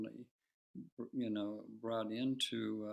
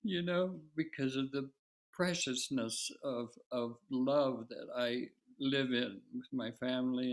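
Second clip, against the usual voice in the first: crying; 3 dB louder than usual. Real, not acted. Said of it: "I just can't stop crying".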